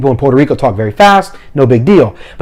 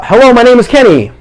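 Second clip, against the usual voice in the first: higher-pitched, self-contained introduction; demo for an interpreter; 8 semitones higher than usual. Shown as a demonstration. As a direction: address an audience through an interpreter. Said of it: "I would say something like this".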